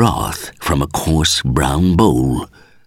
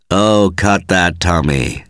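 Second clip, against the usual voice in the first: cheerful. Acted. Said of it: "said Belchambers cheerfully".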